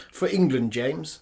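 lightly imitated refined English film accent; a hint of refined English, imitating an actor. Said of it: "He goes with his refined English accent".

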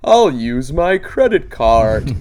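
slow, loud cartoon Chinese accent; South Park Chinese guy. Comic mocking a cartoon, hammed-up Chinese accent. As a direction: stretch it out in a caricatured Chinese accent. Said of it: "like the South Park Chinese guys".

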